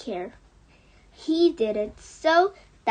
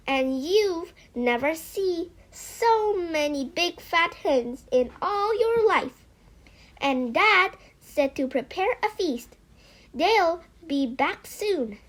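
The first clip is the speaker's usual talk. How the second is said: put-on excited child; 6 semitones higher, 3 dB louder than usual.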